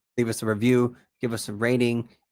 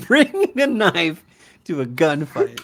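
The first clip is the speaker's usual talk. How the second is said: dramatic song quote; 6 dB louder than usual. Retold or imitated. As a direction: belt out the lyric line. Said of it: "that's a line from the song".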